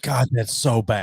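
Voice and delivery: slow, pained disgust; groaning at the awful taste. Real, not acted. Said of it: "I see you suffering".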